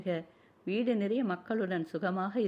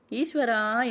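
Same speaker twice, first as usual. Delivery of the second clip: sharp cry of alarm, higher and louder; 4 semitones higher, 5 dB louder, much slower than usual. A narrator's reading. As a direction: call on the god as she falls. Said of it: "என்று கத்திக்கொண்டே".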